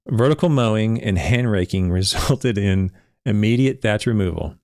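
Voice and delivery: reading straight but breaking into a laugh; trying to keep a straight face; fighting the giggles mid-sentence; suppressed laughter. Real, not acted. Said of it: "try to say this without laughing".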